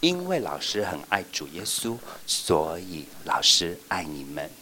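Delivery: gentle teacher assurance; tender. Shown as a demonstration. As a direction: say it with love. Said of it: "我们就要说".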